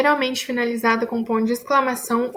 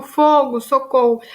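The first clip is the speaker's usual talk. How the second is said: expressive exclamation; 6 dB louder, slower than usual. Shown as a demonstration. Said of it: "basta ter uma entonação expressiva".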